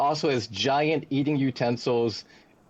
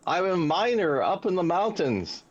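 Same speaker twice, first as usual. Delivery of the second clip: higher-pitched, lightly put-on dwarf accent; a hint of an Irish-style dwarf accent, pitched up; 4 semitones higher than usual. Dwarf tells the party his trade, in a higher dwarf accent. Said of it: "it's a dwarf accent".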